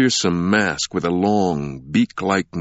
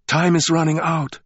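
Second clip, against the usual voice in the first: ghostly woman voice; 10 semitones higher than usual. A narrator's reading. Woman in vision calls out.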